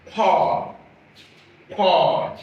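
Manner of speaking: paw said slowly, open "aw" vowel; word demo. Shown as a demonstration. Teacher sounding out paw for learners. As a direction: say paw twice, clearly. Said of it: "in this word".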